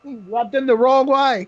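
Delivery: hammed-up Cockney, near Australian; mock Cockney accent. Host imitating Bisping's commentary, mock Cockney. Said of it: "Cockney British accent is near Australian".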